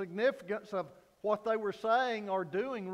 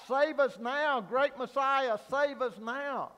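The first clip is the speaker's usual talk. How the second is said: a raised plea, higher and louder; crying out; 4 semitones higher, 4 dB louder than usual. Retold or imitated. The crowd hails its Messiah, pleading cry. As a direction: call out like the hopeful crowd. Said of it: "They cried out".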